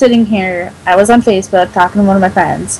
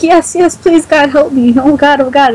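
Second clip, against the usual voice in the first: higher-pitched mock frantic begging; retold pleading; 5 semitones higher than usual. Imitating a friend begging for help, mock frantic. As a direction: imitate someone begging over and over. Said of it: "He kept repeating this over and over".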